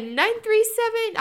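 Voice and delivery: loud, high, slow digits; hammed-up excited shouting; urgent shout. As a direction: blurt the number at full volume. Acts out urgently getting mom's number.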